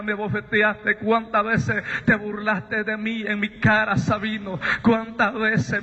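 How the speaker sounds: lightly voiced voice of God reproaching a son; reproaching divine voice. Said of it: "aquella voz recuerdo que me dice".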